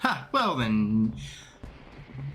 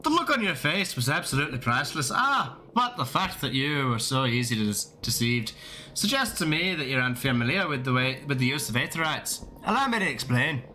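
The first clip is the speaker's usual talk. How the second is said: attempted Irish accent. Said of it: "trying to get the accent down".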